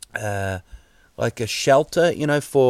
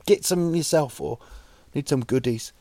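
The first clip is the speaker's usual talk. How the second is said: higher and louder, casual shouted errand; mock owner ordering the dog; 6 semitones higher, 5 dB louder than usual. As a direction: call out to the dog like a lazy bloke on the couch. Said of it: "T V going".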